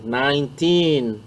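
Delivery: put-on nineteen slow, with the teen stretched; rhythmic nineteen. Shown as a demonstration. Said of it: "c'est rythmé". (nineteen rythmé)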